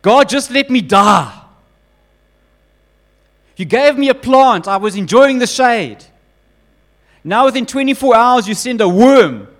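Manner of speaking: a prophet fed up, begging to die; angry despair. Acted. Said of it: "Jonah becomes even angrier".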